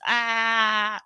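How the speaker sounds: long, level mock groan of overwhelm; frustrated "aah". Acting the CEO whose company is all over the place, exasperated drawn-out cry.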